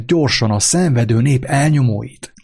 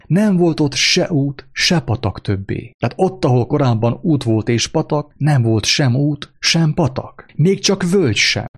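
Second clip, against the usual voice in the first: dramatic storytelling; 3 semitones higher than usual. A narrator's reading. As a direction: let the amazement grow line by line. Storyteller builds to wonder.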